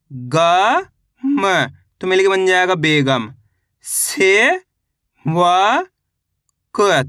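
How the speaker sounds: slow classroom sounding out, syllable by syllable; patient teacher reading to children; syllable drill. Acted. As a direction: spell each letter, then blend the word.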